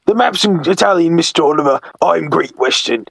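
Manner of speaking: lightly voiced apologetic brake van; a touch of the polite servant; Toad. Toad excusing himself to Mister Oliver, lightly voiced character. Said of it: "I'm doing that voice".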